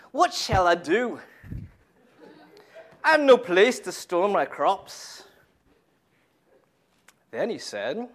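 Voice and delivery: put-on a light Scottish accent, slow and fuller; reading the rich man in a mild Scottish accent. Preacher reading the parable in a light Scottish accent. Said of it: "he did it in a Scottish accent".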